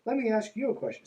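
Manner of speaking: lightly voiced preachy author; mock preacher voice. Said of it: "mocking the book's refrain".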